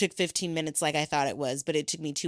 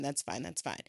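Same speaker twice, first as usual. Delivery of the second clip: fading resignation; 3 semitones lower, 11 dB quieter than usual. Real, not acted.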